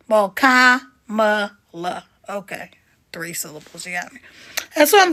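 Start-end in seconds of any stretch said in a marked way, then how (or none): 0.3-2.0 Kamala drawn out slowly as KAH-muh-luh; Kamala said slowly, first syllable stressed; slow careful name. Shown as a demonstration. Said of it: "what is it, two syllables". 2.3-4.2 unvoiced whispered concession; a sheepish whispered admission; whispered aside. Real, not acted. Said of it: "whispered aside after self-correction".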